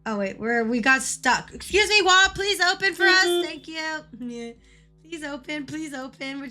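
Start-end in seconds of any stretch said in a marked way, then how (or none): 1.5-3.3 mock polite plea. Pleading with a game wall.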